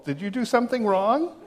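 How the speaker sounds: normal talking voice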